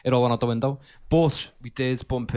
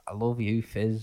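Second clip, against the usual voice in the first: Kev Webster impression; slower than usual. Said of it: "Si does a really good Kev Webster".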